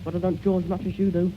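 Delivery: talking through a mouthful of pudding; mouth full. Real, not acted. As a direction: speak round a big bite of food. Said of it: "Don't talk with your mouth full".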